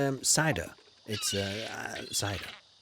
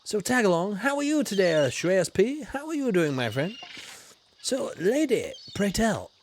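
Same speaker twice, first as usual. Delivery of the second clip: posh explorer character; 2 semitones higher than usual. Acted. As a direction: hail the viewers like a grand old explorer. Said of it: "a famous biscuitologist from Yorkshire".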